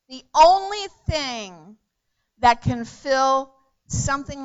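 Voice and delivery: preaching shout. Real, not acted. Preacher proclaiming to the congregation that only Jesus fills the hole. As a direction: lift it up and lean into the words.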